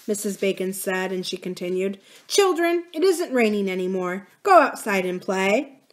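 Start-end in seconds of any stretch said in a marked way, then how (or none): 2.3-5.8 authoritative. Acted. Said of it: "Her voice had such authority".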